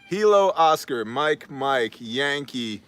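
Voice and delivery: phonetic alphabet, loud and half-laughing like a radio operator; mock radio spelling. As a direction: spell it out radio-style, each word punched. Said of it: "How is that phonetically?".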